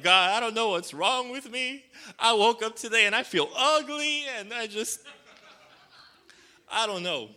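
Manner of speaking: high, loud, pleading cry to God; high-pitched and loud, near tears; desperate crying prayer. Pretend. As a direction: pour it out to God like you're about to weep. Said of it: "you just wanna be like".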